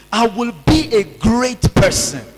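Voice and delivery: bold, firm declaration; very confidently. Shown as a demonstration. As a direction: declare it like you believe it. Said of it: "Please say it very confidently".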